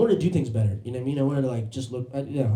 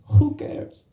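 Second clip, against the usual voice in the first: raised mock Serbian accent; imitation of a Serbian driver's English; 4 semitones higher, 3 dB louder than usual. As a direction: deliver a punchline in a heavy Serbian accent. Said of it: "That's a Serbian accent".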